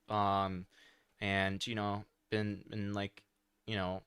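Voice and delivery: worn-out, trailing, quiet rambling; fading out from exhaustion; tired. Real, not acted. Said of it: "really tired".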